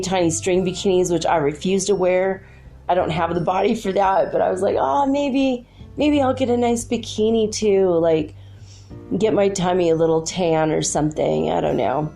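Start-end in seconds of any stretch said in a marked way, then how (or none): 4.8-7.9 high, wistful maybe; tempted, rising higher; hopeful musing. Retold or imitated. Inner voice imagining bikini.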